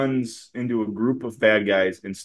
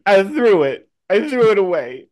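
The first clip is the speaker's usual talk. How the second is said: put-on higher, like a guilty child; sheepish little kid; 9 semitones higher, 4 dB louder than usual. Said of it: "like a little kid".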